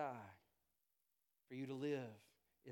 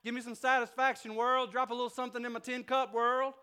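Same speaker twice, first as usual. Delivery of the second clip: high, loud, pleading beggar's whine; begging with a tin cup; 11 semitones higher, 12 dB louder than usual. Acted. Heart out in the cold begging the world, whining plea. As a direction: beg the world for scraps. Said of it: "with a tin cup going".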